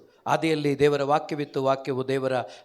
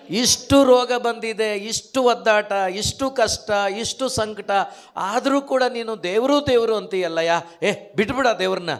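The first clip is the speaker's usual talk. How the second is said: grumbling wife; 5 semitones higher, 3 dB louder than usual. Retold or imitated. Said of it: "ಹೆಂಡ್ತಿ ಏನಂತ ಗೊಣಗ್ತಾಳೆ".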